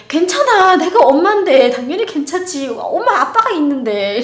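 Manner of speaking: high, loud, doting reassurance; sweet reassurance. Retold or imitated. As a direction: reassure a sweet boy, beaming. Mother reassuring boy. (아이를 안심시키며 높고 다정하게)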